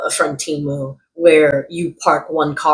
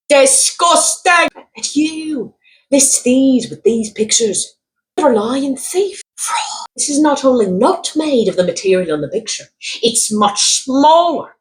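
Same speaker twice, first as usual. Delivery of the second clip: a hammed-up Irish accent, whispered and raised in pitch; 9 semitones higher than usual. Reading an American buyer's furious review in a mock Irish accent. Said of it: "I'm gonna read it with an Irish accent".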